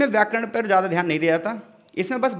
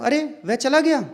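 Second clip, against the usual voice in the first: surprised; 6 semitones higher, slower than usual. Shown as a demonstration. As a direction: sound amazed that he left. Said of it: "विस्मयादिबोधक है". (आश्चर्य से, ऊँची आवाज़ में "अरे")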